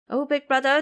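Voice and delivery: put-on boy panicking about the fruit; alarmed boy. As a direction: cry out to your brother. Ming Yue alarmed.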